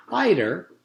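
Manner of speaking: high, sweet dentist voice; a sugary, sinister dentist. A narrator's reading. Dentist voice in story.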